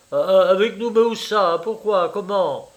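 high, loud, stammered string of questions; panicked surprise. A narrator's reading. Friend learns she wants to come along, panicked surprise. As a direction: blurt each question in flustered astonishment. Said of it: "La surprise affolée de mon ami".

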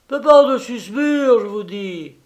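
loud, high yelling; heated quarrel. Acted. A servant-hunter shouts at his partner, loud and angry. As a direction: argue in a rage.

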